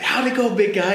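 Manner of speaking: a mom bursting to hear the news; excited mom. Retold or imitated. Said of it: "she was excited".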